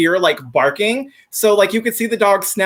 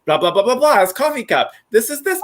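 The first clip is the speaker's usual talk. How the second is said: speaking backwards; 4 semitones higher than usual. Retold or imitated. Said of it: "did you know that I can speak backwards".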